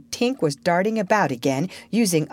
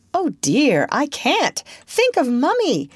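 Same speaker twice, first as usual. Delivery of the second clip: high, fretful little protest; a touch of girlish dismay; lightly voiced fretting girl; 9 semitones higher, 3 dB louder than usual. A narrator's reading. Wendy voiced, fretting at Peter's invitation.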